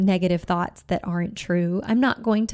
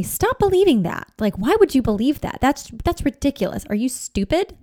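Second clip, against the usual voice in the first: sharp high scolding, louder at the start; judging scold; 4 semitones higher, 3 dB louder than usual. Acted. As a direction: berate a child who feels not good enough. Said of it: "If I am judging them".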